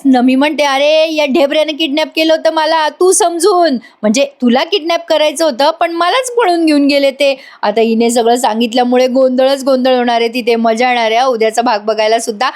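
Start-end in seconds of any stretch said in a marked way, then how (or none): 0.6-7.3 higher, eager blurt of the story; excited retelling. Acted. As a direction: spill it all out, raised and eager. Nami excitedly retells kidnapping.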